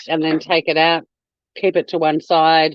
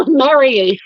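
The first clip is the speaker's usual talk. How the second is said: excited greeting; 7 semitones higher, 5 dB louder than usual. Real, not acted. Greeting a viewer in chat.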